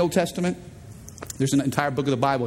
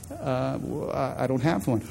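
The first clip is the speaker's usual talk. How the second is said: sheepish mumble; 4 semitones lower, 5 dB quieter than usual. Acted. Woman answering Jesus sheepishly.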